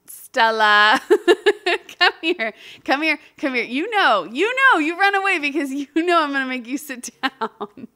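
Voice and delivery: calling the dog. Real, not acted. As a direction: call the dog over, half laughing.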